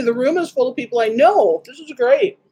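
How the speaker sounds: talking while chewing; mouth full. Real, not acted. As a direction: speak around a mouthful of food. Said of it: "As I talk with my mouth full".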